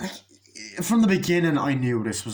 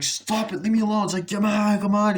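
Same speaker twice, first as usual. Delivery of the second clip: mock struggling protest; 7 semitones higher, 4 dB louder than usual. Acted struggle.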